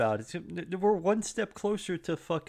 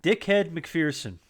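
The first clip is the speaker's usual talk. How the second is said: slow; 2 semitones higher, much slower than usual. Pretend. Joke name, drawn out.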